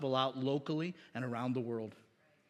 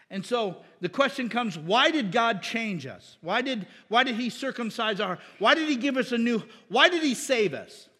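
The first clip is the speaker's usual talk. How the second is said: louder, higher preaching questions; rising fervor; 5 semitones higher, 5 dB louder than usual. Real, not acted. Preacher asking the church why God saved us, fervent.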